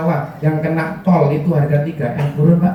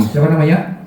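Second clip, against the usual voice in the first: rousing call to the crowd; 7 semitones higher than usual. Acted. Seminar speaker urging mothers to shout his name, rising excitement. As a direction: whip the audience up to shout back.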